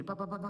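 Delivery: mock crowd chatter, kept under the voice; imitated chatter. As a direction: imitate a roomful of people all talking. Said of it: "aquele pessoal falando".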